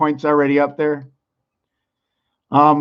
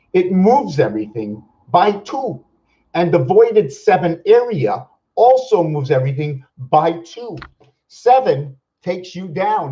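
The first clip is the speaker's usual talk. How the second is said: emphatic, higher-pitched lecturing; worked-up, raised voice; 4 semitones higher than usual. Real, not acted. Lecturer carried away explaining the number seven, voice raised. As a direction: get carried away, voice climbing. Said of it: "Am I screaming?".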